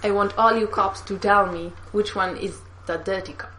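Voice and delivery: a stilted attempt at a Russian accent; copied Russian accent. Shown as a demonstration. Friend repeating the villain line, stilted Russian accent. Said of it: "say it line by line so I can copy you".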